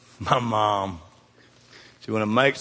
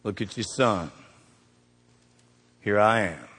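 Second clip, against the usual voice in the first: tender quiet; 5 semitones lower, 6 dB quieter than usual. Retold or imitated. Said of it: "Jesus to his mother".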